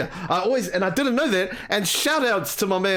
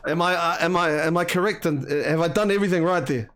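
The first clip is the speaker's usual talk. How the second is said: ordinary delivery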